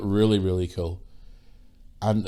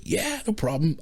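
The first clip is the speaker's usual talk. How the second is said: imitated breezy agreement; 8 semitones higher than usual. Actor agrees to photograph.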